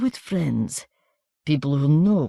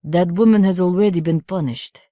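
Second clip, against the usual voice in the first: coarse country voice; 2 semitones higher than usual. A narrator's reading. Baroness consoling the stranger in a coarse country accent. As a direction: relish the woman's downfall, coarsely.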